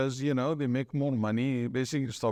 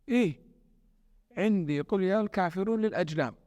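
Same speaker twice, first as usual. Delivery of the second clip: quick, higher-pitched imitation of a rural Arabian accent; imitated rural Arabian accent; 5 semitones higher, much faster than usual. Village imam answering the man advising him, imitated rural Arabian accent. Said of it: "Then in his accent, he said".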